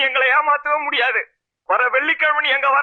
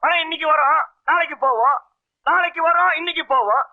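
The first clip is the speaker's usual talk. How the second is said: sarcastic echo. Retold or imitated. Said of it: "Krishna பரமாத்மா இல்லையா?".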